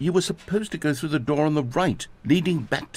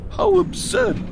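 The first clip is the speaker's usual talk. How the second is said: shouted high; slower than usual. Acted. Peak of bucket voice.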